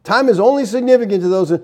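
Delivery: scornful echo, stress on "is"; incredulous repeat. Shown as a demonstration. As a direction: repeat it like you can't believe it.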